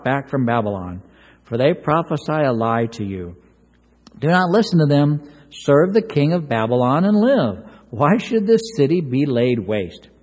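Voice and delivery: reading Jeremiah's words to the congregation, solemnly; scripture reading. Acted. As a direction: read the verses with weight. Reads scripture aloud.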